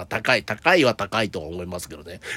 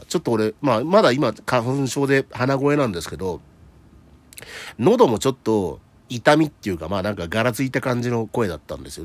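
stuffy nose from hay fever, talking through it; blocked-nose voice with a hint of rasp; nasal voice. Real, not acted. (鼻声)

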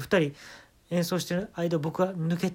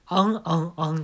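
mock moaning; 2 semitones higher than usual. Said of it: "ベタなエロ本の声ですよ".

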